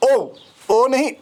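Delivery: ओ held long and pure, not a glide; teacher correcting ओ, drawn out; careful vowel demo. Shown as a demonstration. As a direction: stretch ओ slowly as a single vowel. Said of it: "ये है ओ".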